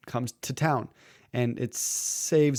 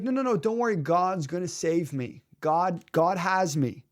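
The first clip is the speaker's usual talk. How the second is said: acted stubborn believer, drawing out the last phrases; insistent refusal; 4 semitones higher than usual. Drowning man refuses another boat, blithely insistent.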